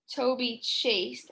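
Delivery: Toby chased drawn out slowly; slow, emphatic. Shown as a demonstration. Teacher modeling an exciting action word, slow. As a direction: lean on chased. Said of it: "That's an exciting word".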